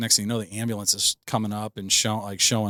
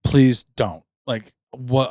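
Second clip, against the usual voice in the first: begging; 3 semitones higher, 6 dB louder, much slower than usual. Retold or imitated. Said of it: "I'm begging".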